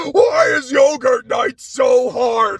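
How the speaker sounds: slow, exasperated mock wail; mock heartbreak. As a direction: lament it with hammed-up anguish. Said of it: "also just kinda heartbreaking".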